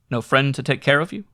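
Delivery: he echoes her words in surprise; incredulous repeat. A narrator's reading. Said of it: "I repeated".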